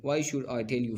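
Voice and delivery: "Why should I tell you" with a falling tune; falling intonation. Shown as a demonstration. Teacher demonstrating intonation, falling "Why should I tell you". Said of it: "falling".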